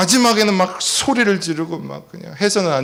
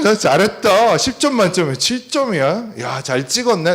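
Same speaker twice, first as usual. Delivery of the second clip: excited praise; 6 semitones higher than usual. Retold or imitated. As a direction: cheer the kid on, overjoyed. Father praising son's seven points.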